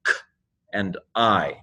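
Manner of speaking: "k" as a bare consonant, then "I" like eye; separate letter sounds. Shown as a demonstration. Teacher sounds out the letters, isolated "k" and "I". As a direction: sound out "k", pause, "I". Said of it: "the sounds of the letters are".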